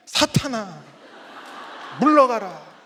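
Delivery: retold cry of banishment, loud; loud, drawn-out command to be gone; loud rebuke. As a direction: cast out the devil at full voice, retold. Acting out rebuke at his wife.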